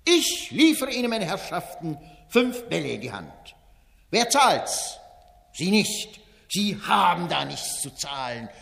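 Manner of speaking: Wenzel Wondrak, fairground barker. Acted. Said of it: "steht der Ausrufer Wenzel Wondrak".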